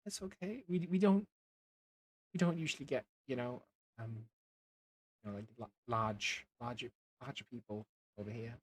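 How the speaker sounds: squeaky little barmaid voice. Acted. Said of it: "And she goes".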